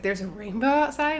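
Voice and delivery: mildly astonished retold question; surprised question. Bride reacting to the planner's rainbow news, surprised. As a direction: ask it as if just hearing the news. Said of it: "And Eleanor was like".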